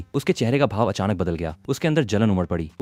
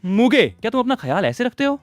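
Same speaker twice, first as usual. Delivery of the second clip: much higher pained, angry rebuke; angry cry; 12 semitones higher than usual. A narrator's reading. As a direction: cry out at him in anger and hurt. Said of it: "गुस्से और दर्द से चिल्लाई". (गुस्से और दर्द भरी पुकार)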